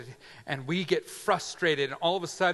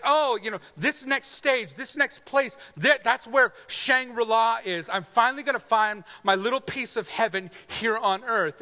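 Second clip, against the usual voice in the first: dreamy hope; 6 semitones higher, 4 dB louder than usual. Retold or imitated. Imagined dreamer of Shangri-La.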